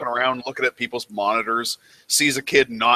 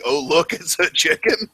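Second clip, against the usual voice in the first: rising high quote; quoting the title; 5 semitones higher than usual. Retold or imitated. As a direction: lift it up like a silly question. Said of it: "is that part of the".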